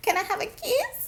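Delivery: put-on very high baby voice. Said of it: "she's putting on her baby voice".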